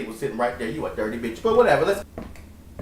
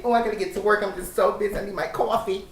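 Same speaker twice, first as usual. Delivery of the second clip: higher-pitched, hammed-up fretting; higher mock-harried voice; play-acting busy worker; 5 semitones higher, faster than usual. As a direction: put on a little overworked-employee act.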